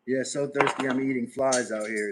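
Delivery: mock complaint. Real, not acted. Hamming up thirst to chat.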